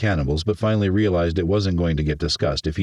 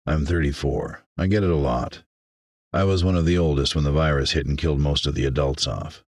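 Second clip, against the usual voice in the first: slightly lower, subdued man; matter-of-fact Raglan; 3 semitones lower than usual. Acted. Survivor explains his age to a shopman, matter-of-fact. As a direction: explain it evenly, used to the question.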